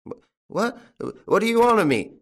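put-on high-pitched stammering old tramp; bewildered, quavering high voice; frightened stammer. A narrator's reading. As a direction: stammer and whine helplessly. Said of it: "stammered old Traynor".

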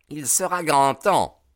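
high, loud cry of approval; exclaiming. A narrator's reading. Ted Baldwin s'écrie devant la loge, fort et aigu. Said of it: "s'écria Ted Baldwin".

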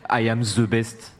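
put-on slow English in a French accent; lightly hammed-up French accent, struggling with English. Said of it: "accent slash le fait qu'on galère en anglais".

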